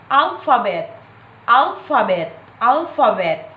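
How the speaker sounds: "alphabet" main stress on AL, lighter on bet; first and third stress. Shown as a demonstration. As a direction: hit AL in "alphabet", secondary weight on bet. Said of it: "primary stress is on the first syllable".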